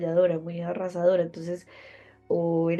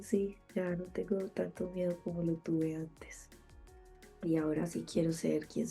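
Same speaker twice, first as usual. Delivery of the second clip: whispering; 7 dB quieter than usual. Real, not acted. Intimate confession, unvoiced.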